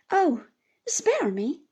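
lightly voiced weeping cry; mild tearful broken plea; through sobs. A narrator's reading. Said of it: "was all I could distinguish".

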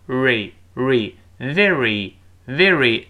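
slow "re" and "very" with the tongue tip curled back. Shown as a demonstration. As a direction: draw out the R in "very". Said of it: "舌尖往后勾". (舌尖后勾，慢读"re，very")

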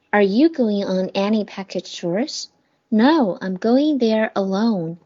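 slow, careful dialogue read-through; slow review reading. Shown as a demonstration. Teacher rereads the dialogue for the students' review, slowly. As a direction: read it slowly so they can repeat. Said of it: "我帮大家最后再读一遍".

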